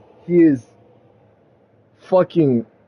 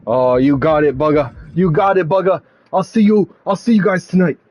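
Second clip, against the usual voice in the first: eager agreement; faster than usual. Acted.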